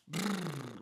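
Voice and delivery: shivering brrr with lips; lip trill. Shown as a demonstration. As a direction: buzz the lips like you're cold. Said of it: "like people do that when they're cold".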